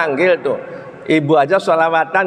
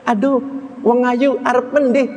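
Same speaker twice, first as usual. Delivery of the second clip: sweet greeting; 7 semitones higher than usual. Shown as a demonstration. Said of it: "Manggil yang baik".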